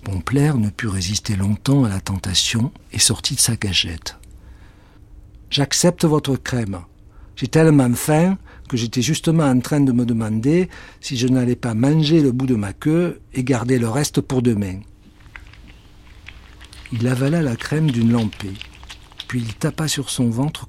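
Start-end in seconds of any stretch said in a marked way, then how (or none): 5.5-14.8 grab the offer hungrily; lightly voiced hungry cat.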